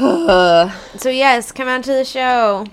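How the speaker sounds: bright, upbeat promo voice; cheerleader. Real, not acted. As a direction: hype up the audience for the show. Announcing the show to listeners.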